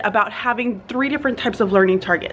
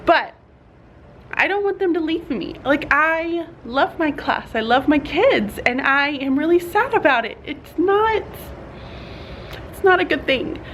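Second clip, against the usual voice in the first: near tears; 5 semitones higher than usual. Real, not acted. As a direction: voice welling up with sadness. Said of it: "I feel like I'm about to tear up now".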